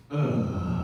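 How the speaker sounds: mock reluctant "ugh"; unimpressed groan. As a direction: groan like it's too much bother. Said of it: "this was his response".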